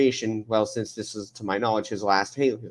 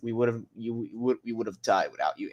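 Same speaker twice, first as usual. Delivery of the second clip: Chief; 3 semitones lower, 6 dB quieter than usual. Acted. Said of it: "when Chief goes".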